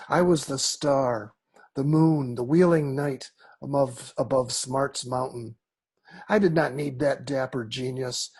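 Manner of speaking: measured poetry recital with deliberate pauses between phrases; poem reading. Acted. Poet reads Pale Blues to an audience, measured poem reading. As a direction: read it as verse, pausing phrase by phrase.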